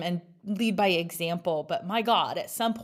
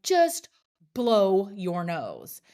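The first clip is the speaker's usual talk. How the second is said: retold mom scolding her son, exasperated; exasperated nagging; much slower than usual. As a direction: snap it at a kid who won't stop sniffing.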